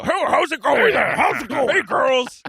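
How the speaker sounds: put-on high, gushing girlfriend greeting; Carrie. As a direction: greet the girls like a sitcom star. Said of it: "That Carrie does".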